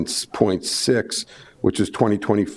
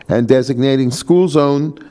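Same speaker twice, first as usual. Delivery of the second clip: teacher voice. Shown as a demonstration. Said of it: "I was using my teacher voice there".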